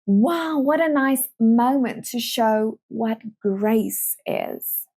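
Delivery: mock delighted. Excited opportunity mindset voiced.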